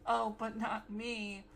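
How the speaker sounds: drawn-out mock protest, slowly; lightly sarcastic, slow quote. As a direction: imitate a sarcastic reply, dragging the words. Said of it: "sarcastically like".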